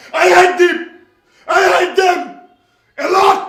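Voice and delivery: loud, high outburst on hate; shouted rant. Acted. Husband ranting about abusive husbands, loud shouted outburst. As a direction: spit out the hate.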